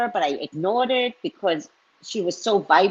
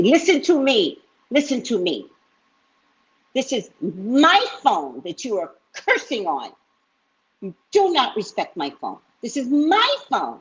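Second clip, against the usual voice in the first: scolding; 5 semitones higher than usual. Retold or imitated. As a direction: lay down the law, stressing my. Scolding the cussing man on phone.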